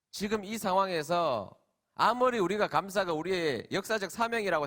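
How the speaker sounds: mildly indignant retold protest, rising in intensity; retold indignation. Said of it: "좀 화가 났어요". (낮게 시작해 점점 높아지는 화난 항변)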